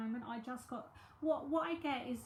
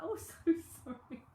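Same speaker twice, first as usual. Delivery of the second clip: embarrassed apology; 6 semitones higher, 6 dB louder than usual. Retold or imitated. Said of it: "I was like".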